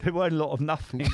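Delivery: laughing through a fast quip. Real, not acted. Joking about his old all-or-nothing drinking, laughing. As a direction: chuckle it out quickly, amused at himself.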